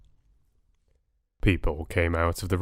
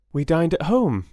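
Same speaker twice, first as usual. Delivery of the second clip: happy; 9 semitones higher, 4 dB louder than usual. Acted. Bella twirling happily.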